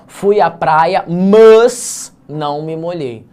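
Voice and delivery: mas said slowly and loud, no i, mas instead of mais; artificial pronunciation. Pretend. Teacher mocking a student who says mas stiffly to sound correct. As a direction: exaggerate the bare mas, overcorrect it. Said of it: "tá passando vergonha".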